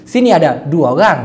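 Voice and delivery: সিনি আডা ডুয়া গাং with অরাং shortened to গাং; colloquial Malay gang. Shown as a demonstration. Teacher contrasting the casual Malay sentence with the standard. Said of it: "আমি আবার বলতেছি".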